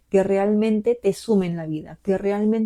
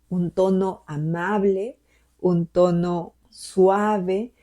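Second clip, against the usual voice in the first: gentle tone; much slower than usual. Shown as a demonstration. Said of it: "¿Cuál es el tono de voz que utilizas contigo?".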